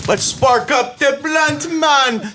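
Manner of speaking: high, slow, hammed-up laid-back drawl; mock stoner voice. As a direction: play the carefree tourist, stretched out and high. Wife voiced in a honeymoon story.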